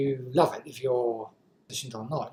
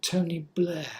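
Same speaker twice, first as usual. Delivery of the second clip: Tony Blair; 4 semitones higher than usual. Shown as a demonstration. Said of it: "or even worse".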